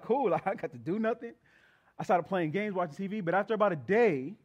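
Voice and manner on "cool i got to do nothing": put-on gleeful kid. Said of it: "I was like".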